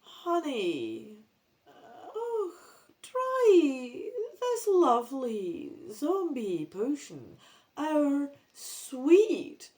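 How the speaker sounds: slow, dragged-out zombie drone. Acted. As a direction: moan it like a dazed zombie. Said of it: "in a very zombie-sounding voice".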